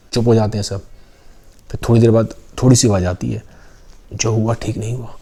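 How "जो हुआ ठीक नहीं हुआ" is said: softer, subdued remark; hushed murmur. Acted. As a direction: mutter it so the husband won't hear. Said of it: "अब धीरे आवाज़ आ रही है". (धीमी आवाज़ में फुसफुसाना)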